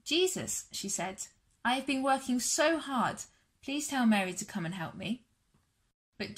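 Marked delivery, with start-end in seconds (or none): 0.0-0.7 Jesus called out high and flustered; a higher, harried cry of his name; hot and bothered. Acted. Martha bursting out to Jesus, flustered and high. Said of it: "all hot and bothered". 1.6-5.3 mildly flustered complaint; a touch of harried pleading, lightly voiced; hot and bothered. Martha complaining to Jesus about the work, mildly flustered. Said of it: "all hot and bothered".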